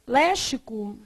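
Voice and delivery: Léxico said with x as sh, lé-shi-co; wrong Léxico with sh; student's mistake. Shown as a demonstration. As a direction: mimic a student saying Léxico with sh. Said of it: "vai ler léxico e lê como?".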